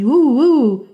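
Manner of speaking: a lighter wolf howl for yes. Acted. Wolf accepts the mouse's proposal, lighter howl. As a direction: answer yes with a short howl. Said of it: "said the wolf as a yes".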